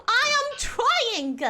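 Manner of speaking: over-enunciated "trying" with a released g; pronounced NG. Shown as a demonstration. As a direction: insist on "trying", sounding out the final NG. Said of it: "I am also pronouncing my N Gs".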